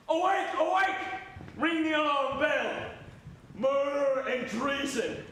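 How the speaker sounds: urgent shouted alarm; calling out alarm. Acted. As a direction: rouse the whole castle. Raising the alarm at night.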